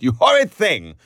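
high, loud mock scolding; scandalised protest. A narrator's reading. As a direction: scold your friend in mock shock. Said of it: "Miss Kennedy protested".

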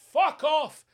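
loud, high shout of disbelief; incredulous outburst. Real, not acted. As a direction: burst out in disbelief. Disbelief at soy sauce flavour.

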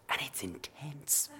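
slow, hushed dramatic whisper; drawn-out breath of suspense; intense whisper. Retold or imitated. Mock-dramatic standoff in story.

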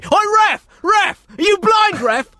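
high, loud touchline shout; yelling at the ref. Retold or imitated. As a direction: scream abuse at the referee. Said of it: "You're probably gonna hear them say".

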